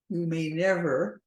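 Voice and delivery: slow, weight on never; underlining never. Shown as a demonstration. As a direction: lean on the word never. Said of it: "I underline the word never".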